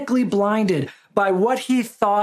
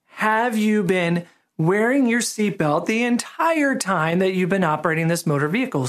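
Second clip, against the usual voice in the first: officer repeating the question slowly, word by word; slower, deliberate. Retold or imitated. Officer repeats his question to the driver, slowly and deliberately. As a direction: spell it out slowly for the slow driver. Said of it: "I'm gonna say it slower".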